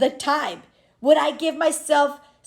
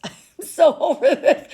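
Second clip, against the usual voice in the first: laughing; 4 semitones higher than usual. Retold or imitated. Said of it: "I was like".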